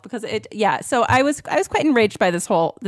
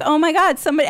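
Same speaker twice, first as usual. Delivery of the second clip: muttered outrage; 5 semitones higher, faster than usual. Retold or imitated. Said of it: "muttering and I'm like".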